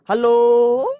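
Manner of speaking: a thin, high, loud hello; high-pitched hello. Shown as a demonstration. Teacher showing students a high-pitched hello. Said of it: "मेरी उसमें pitch ज्यादा थी".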